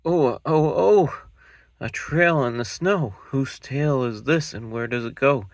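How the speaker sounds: high, loud excited little monster; a cub thrilled by a trail in the snow; Gruffalo's child. Acted.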